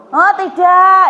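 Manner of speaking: emphatic no. Acted. Preacher's rhetorical twist.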